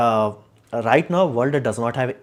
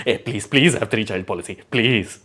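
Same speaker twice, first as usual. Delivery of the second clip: pleading government voice, put on; hammed-up plea for more children; mock pleading. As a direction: beg please please like a desperate state. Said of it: "went from one child policy to".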